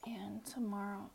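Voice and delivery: words through a yawn. Real, not acted. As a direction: yawn while saying it. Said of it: "I just yawned".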